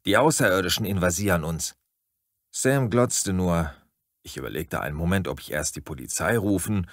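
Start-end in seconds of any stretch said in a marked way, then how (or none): 0.1-1.8 urgent. Acted. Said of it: "rief ich Sam zu".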